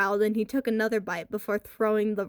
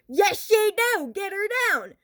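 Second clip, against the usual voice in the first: panicked shout; 11 semitones higher, 5 dB louder than usual. A narrator's reading. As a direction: scream it in panic. Kid being bitten panics.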